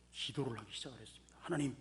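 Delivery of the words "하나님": pleading prayer, rising higher at the end; desperate prayer. Retold or imitated. Man clinging to a root begging God, lightly acted pleading. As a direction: beg God for rescue. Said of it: "간절히 부르짖었습니다".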